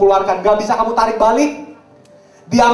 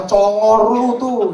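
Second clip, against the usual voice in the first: youth slang; much slower than usual. Retold or imitated. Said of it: "anak muda zaman sekarang".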